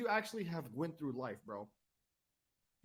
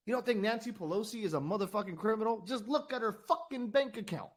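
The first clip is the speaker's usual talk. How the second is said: louder, rising heated rant; getting angry; 5 semitones higher, 5 dB louder than usual. Real, not acted. Host venting about Pelosi to his listeners, angry and louder. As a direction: let real anger push the words out. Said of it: "I'm sorry I'm getting fucking angry".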